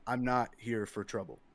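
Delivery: flat monotone voice; even, flat monotone delivery. Acted. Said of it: "kind of a monotone voice".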